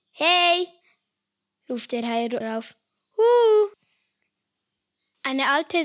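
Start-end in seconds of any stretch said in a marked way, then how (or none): 0.1-0.7 loud, high call. Acted. Owl calling down to the shark, loud and high. 3.2-3.7 very loud high hoot; calling out. Acted. Shark calling up to the owl, very loud and high.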